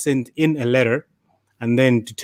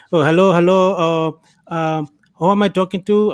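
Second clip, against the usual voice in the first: lightly imitated Indian accent, pitched higher; mock Indian scam caller, higher and a bit louder; 5 semitones higher, 4 dB louder than usual. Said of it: "Why are you doing the accent?".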